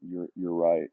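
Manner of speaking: subdued, repeated admission; retold calmed-down concession. Friend cooling down after being told off, retold subdued agreement. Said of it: "he cooled down".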